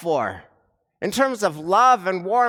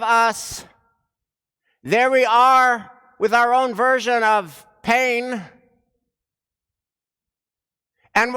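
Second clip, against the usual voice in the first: rising preaching intensity; 3 dB louder than usual. Real, not acted. Sermon builds to its climax.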